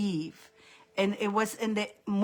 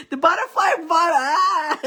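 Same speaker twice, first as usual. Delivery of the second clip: yawning; 7 semitones higher, 5 dB louder than usual. Real, not acted. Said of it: "I don't yawn that much".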